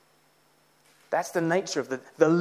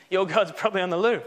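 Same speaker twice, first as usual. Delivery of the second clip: laughing mockery; 4 semitones higher, faster than usual. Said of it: "Literally, he says".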